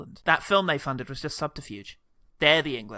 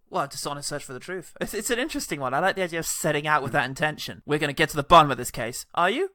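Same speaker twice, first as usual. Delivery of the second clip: mustache twirling villain. Pretend. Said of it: "he's twirling his mustache".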